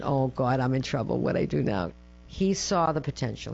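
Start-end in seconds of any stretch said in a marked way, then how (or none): 0.0-1.9 low, understated worry; retold dread. Daughter walking in to face her father, low-key dread. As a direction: mutter it to yourself, mildly dreading trouble.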